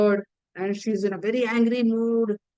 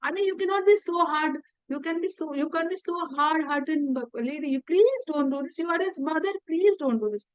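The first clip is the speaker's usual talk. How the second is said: begging, crying; 4 semitones higher than usual. Retold or imitated. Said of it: "he's crying, he's begging".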